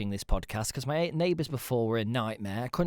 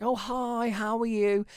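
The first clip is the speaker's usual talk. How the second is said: mock polite greeting; 10 semitones higher, slower than usual. Imitating small talk greeting.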